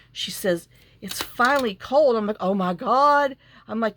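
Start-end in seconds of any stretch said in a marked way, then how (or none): 1.0-2.1 loud, higher-pitched delighted cashier; imitating an excited cashier; retold excitement. Retold cashier delighted by cold weather. 2.4-3.4 loud, higher-pitched exclamation; acting out a delighted reaction; retold excitement. Retold gleeful reply about cold.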